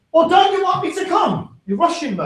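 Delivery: high whiny wife voice; mock wife. Wife protesting to her husband, high and whiny. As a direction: complain shrilly about being rushed.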